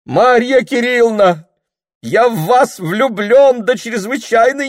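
high, loud, desperate declaration of love; a pleading, lovestruck yell; frantic love shout. Acted. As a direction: beg at the top of your voice.

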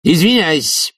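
high, brisker "Извиняюсь" falling at the end; interrupting. A narrator's reading. Committee head interrupts his comrade, high falling "Извиняюсь". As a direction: cut in high on "Извиняюсь" and land firmly. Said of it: "перебил его Швондер".

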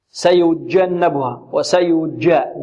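jeem in سيجنبها tinged with a d, like "dj"; mispronounced jeem. Shown as a demonstration. Teacher showing students a faulty jeem with a d mixed in. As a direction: drag سيجا with the tongue tip adding a d to the ج. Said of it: "البعض يخرج الجيم من بين وسط اللسان وطرف اللسان، أو يشمها الدال".

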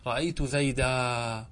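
زيدا with a long final a; زيدا, slow, ending open on aa; majority pausal form. Shown as a demonstration. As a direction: draw out the aa of زيدا. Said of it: "أما الجمهور فيقولون".

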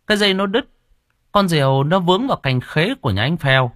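a scared lad blurting out the accident; breathless young man. A narrator's reading. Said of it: "hồn hển".

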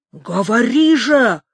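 loud demand; exclaiming. A narrator's reading. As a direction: shout the demand at him. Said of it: "воскликнул Рамон". (громко требует)

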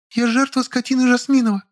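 high, indignant woman's voice; indignant Lilya. A narrator's reading. Lilya protesting to the narrator, high and indignant. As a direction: bristle at it, pitched high.

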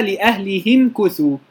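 لأهلهم كثوا with the ha as hi; Khalaf's reading; kasra reading. Shown as a demonstration. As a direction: say لأهلهم as li-ahlihim. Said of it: "بكسر الهاء".

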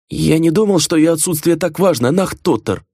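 high, anxious servant pleading; nervously excusing himself to the master; frightened servant. A narrator's reading.

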